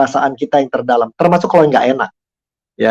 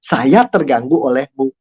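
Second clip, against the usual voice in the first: owning the feeling; slower than usual. Shown as a demonstration. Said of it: "Nggak begitu".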